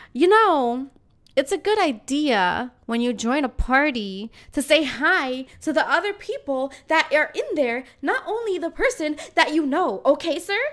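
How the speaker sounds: schooling the rude guy with fake politeness; lecturing. Scolding the rude guest.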